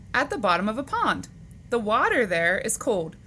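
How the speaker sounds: animated, measured picture-book reading; read-aloud to children. Acted. Teacher reading animal facts to boys and girls, animated read-aloud. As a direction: read it out to young kids, lifting the questions.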